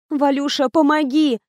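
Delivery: a light groaning plea; moaning. Acted. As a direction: moan for help. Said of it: "простонала я". (со стоном)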